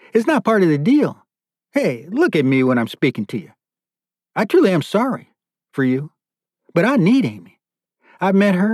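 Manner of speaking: high-pitched, insistent captor laying down terms; self-justifying captor, pitch climbing as he insists; obsessed captor. Acted. Captor telling chained prisoner he will have her, insistent.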